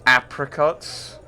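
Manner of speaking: slow, drawn-out mocking echo of the word "Apricots?" with a rise; mock accent. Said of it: "With that accent?".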